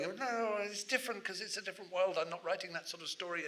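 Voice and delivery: acted writer talking themselves out of it; mock flustered denial. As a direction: wave it away in a small worried voice. Writer dismissing Rowling in acted monologue.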